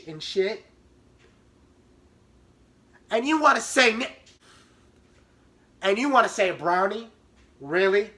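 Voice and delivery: loud, incredulous scolding; mock outraged lecture; angry sister. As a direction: scold like a furious big sister. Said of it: "and goes".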